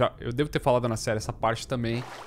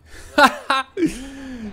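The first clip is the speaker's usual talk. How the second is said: loud burst of laughter; 11 semitones higher, 4 dB louder than usual. Real, not acted. Streamer laughs at game joke.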